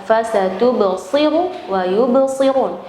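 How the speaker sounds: Fasatubsiru with a heavy, dark shad, slowly; emphatic shad. Shown as a demonstration. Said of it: "Jangan dengan sin".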